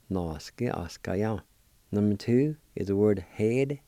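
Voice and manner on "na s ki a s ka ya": "Na, s, ki, a, s, ka, ya" run together a little softer. Shown as a demonstration. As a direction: blend "Na, s, ki, a, s, ka, ya" into one word. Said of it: "And together".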